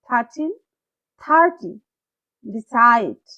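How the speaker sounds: each word alone, its stressed syllable punched, as in পটেটো on টে; syllable stress drill. Shown as a demonstration. Teacher pronouncing words with syllable stress, punched word by word. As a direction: read টিচার, বার্থডে, ডিসাইড as a list, hitting the stressed syllable. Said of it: "এভাবে আমরা সিলেবলের উপর stress দিয়ে".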